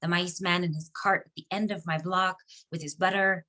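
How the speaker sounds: understated poem recital, measured phrases with pauses; poetry reading. Acted. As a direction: recite your poem line by line, letting pauses fall. Reads second poem aloud.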